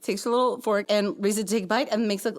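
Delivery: ordinary delivery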